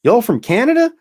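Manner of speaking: high, loud Texan lady impression; food court lady. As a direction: mimic her calling out a question, high and loud. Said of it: "She goes".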